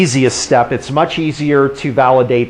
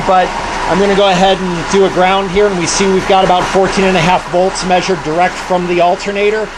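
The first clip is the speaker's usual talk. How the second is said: raised voice over a running engine; shouting over engine; 4 semitones higher than usual. Real, not acted. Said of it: "sorry for talking over the engine".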